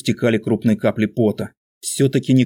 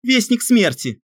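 whisper yelling; slower than usual. A narrator's reading. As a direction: keep the frantic stage whisper. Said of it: "громким шёпотом объявил он в панике".

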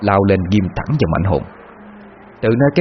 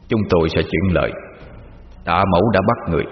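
low, hushed ghostly deference; a soul-catching demon bowing low; respectful demon; 3 semitones lower, 3 dB quieter than usual. Acted. Demon envoy humbly addresses the Mother in a low voice.

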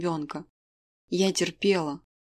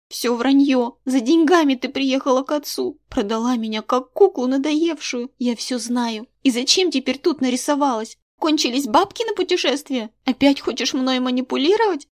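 put-on higher, louder girl hurling accusations; angry girl; 6 semitones higher, 4 dB louder than usual. A narrator's reading. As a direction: lash out with borrowed words. Daughter attacks mother. (дочь нападает на мать, выше и громче)

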